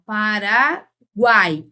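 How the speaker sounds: PARAGUAI drawn out very slowly, all three vowels sounded; every sound pronounced. Shown as a demonstration. Teacher showing students the triphthong, PARAGUAI slowly drawn out. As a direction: stretch PARAGUAI so each vowel of "guai" is heard. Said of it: "Eu, eu pronuncio as três".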